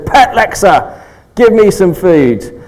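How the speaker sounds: lightly voiced bunny asking for food; a hint of a pleading pet; mock Easter bunny. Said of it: "the Easter bunny comes along and says".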